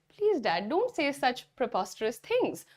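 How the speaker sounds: slowly, gently pleading with dad; slow pleading demo. Shown as a demonstration. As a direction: coax dad slowly, word by word. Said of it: "आप dad को बोल सकते हैं". (धीमी मनुहार)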